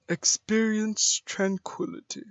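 lightly voiced robot; a mild, even robot attempt; robotic voice. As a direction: say it like a calm machine. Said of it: "I can't do a robotic voice".

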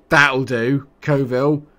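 excited match call; excited urging. Real, not acted. Urging player on during match.

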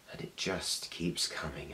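soft, measured start of a build; quietly ominous. Acted. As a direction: hold it back, soft and ominous. Monologue begins its build.

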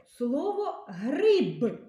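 slow, clear dictation of гриб to a class. Shown as a demonstration. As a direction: dictate гриб slowly for the pupils to write. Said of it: "Напишіть, будь ласка". (повільне чітке диктування слова гриб)

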